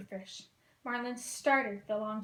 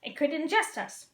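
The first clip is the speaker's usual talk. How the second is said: nervous; 3 semitones higher than usual. Acted. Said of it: "Marlin said nervously".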